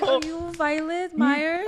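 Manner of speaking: imitating a fan's sweet Japanese accent. The Japanese fan asks Violet if it's her, Japanese accent.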